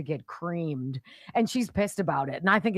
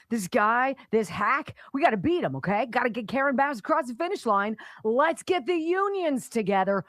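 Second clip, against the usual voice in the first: 1 scheming official; 5 semitones higher than usual. Pretend. Acted planning meeting.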